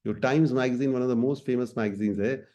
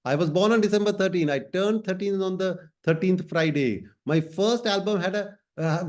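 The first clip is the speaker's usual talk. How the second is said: a light, higher-pitched pop-star voice, slow and deliberate; voicing a famous singer; 6 semitones higher, much slower than usual. Teacher voicing the singer for students, higher and slow. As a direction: speak as the singer proudly listing her thirteens.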